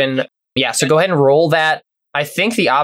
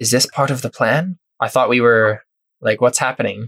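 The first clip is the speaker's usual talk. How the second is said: hushed voice, whispering; 3 semitones lower than usual. Voicing a captured leader dragged along by Alphonse, speaking to him: whispering.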